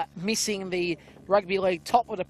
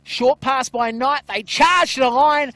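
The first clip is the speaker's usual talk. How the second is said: rising, louder call as they score; excited try call; 2 semitones higher, 4 dB louder than usual. Real, not acted. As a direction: lift the call as they charge the line. Try scored near the line.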